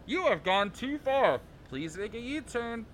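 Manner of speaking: robotic navigation announcer; GPS voice. Acted. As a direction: read it like a sat-nav. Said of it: "you wanna do the G P S voice?".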